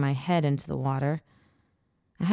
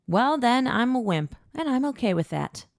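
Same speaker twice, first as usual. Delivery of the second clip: playful admission; 8 semitones higher than usual. A narrator's reading. Playful self-deprecating admission.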